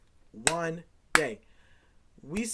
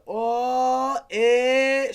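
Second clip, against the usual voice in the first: high, loud mock yell of a kid; kid brother's outburst; 5 semitones higher, 9 dB louder than usual. Little brother yelling at his sibling's girlfriend on FaceTime, loud and high. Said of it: "my little brother said".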